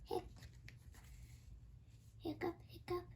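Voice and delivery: P=A; hiccup sounds. Acted. Pete hiccups in the story.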